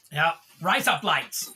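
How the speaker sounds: slow, drawn-out Australian rise up lights; Australian accent. Shown as a demonstration. Streamer mocking Australian card name after chat gets it. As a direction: let rise up lights sound like razor blades. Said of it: "It sounds like razor blades".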